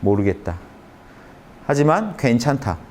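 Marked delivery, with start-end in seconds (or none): 0.0-0.6 low let-go sigh. Shown as a demonstration. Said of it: "몰라라고 해보세요".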